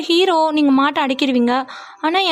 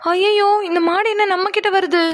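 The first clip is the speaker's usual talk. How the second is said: higher-pitched frightened praying; panicked plea; 4 semitones higher than usual. Acted. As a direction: plead to God as the bull comes. Bull charging, she prays for help.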